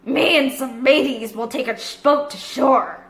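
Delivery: easy, sly pirate talk. Acted. Long John Silver telling the captain, lightly voiced pirate. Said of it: "said Long John Silver".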